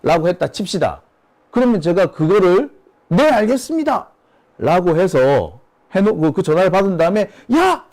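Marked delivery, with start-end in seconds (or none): 3.1-4.1 snappy obedient reply. Pretend. Manager answering the angry chairman, promptly obedient. 7.5-7.9 high-pitched pretend shout for a subordinate; mock sharp call. Manager calling the staffer after a scolding, shouting. Manager relays chairman's angry order.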